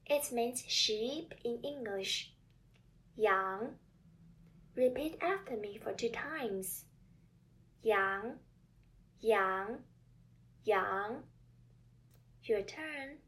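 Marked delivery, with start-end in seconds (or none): 3.2-3.8 "羊" loud, starting low and rising; second tone. Shown as a demonstration. Teacher presenting the second example word, rising second tone. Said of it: "word with the second tone is". 7.8-11.2 "羊" three times, each climbing from low; second tone. Shown as a demonstration. Teacher drilling learners to repeat after her, rising second tone. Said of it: "word with the second tone is".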